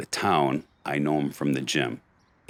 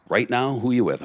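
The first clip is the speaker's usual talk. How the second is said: alarmed question; 9 semitones higher, 3 dB louder than usual. Retold or imitated. Friend calling about the fight.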